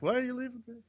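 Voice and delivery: high, soft whiny plea; whining duck. Retold or imitated. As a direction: whine like an abandoned duck. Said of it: "kinda whining".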